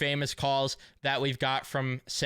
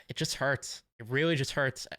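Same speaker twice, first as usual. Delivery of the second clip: sighing, hurt. Real, not acted. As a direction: let the sadness weigh on the words. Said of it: "getting emotional right now".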